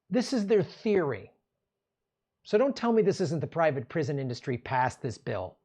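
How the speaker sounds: normal talking voice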